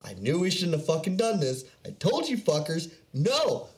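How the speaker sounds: a hint of a panicking presenter; mock regretful presenter. Imitating the presenter's thoughts: lightly voiced rising panic. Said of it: "you just tell he's like".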